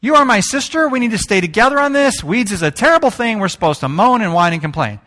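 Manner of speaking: put-on high, incredulous kid brother; a kid scolding his sister for switching sides; the speaker as a boy. The young speaker scolding his sister for enjoying weeds, high and incredulous.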